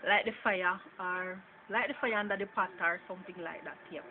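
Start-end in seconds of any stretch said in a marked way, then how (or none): 0.1-2.7 example phrase in a Jamaican accent. Shown as a demonstration. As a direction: say it with Jamaican vowels and dropped r. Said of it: "in Jamaica".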